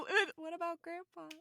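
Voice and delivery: mock shout. Loud mock call.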